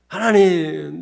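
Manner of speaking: loud, acted prayer cry; crying out to God. Pastor acting out a believer's confession prayer, crying out to God. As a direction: call out to God as in urgent prayer.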